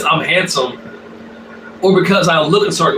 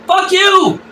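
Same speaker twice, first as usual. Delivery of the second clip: very high-pitched dog retort; other meme dog; 11 semitones higher than usual. Retold or imitated. One meme dog answers the other, high mock dog voice. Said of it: "And the other dog's like".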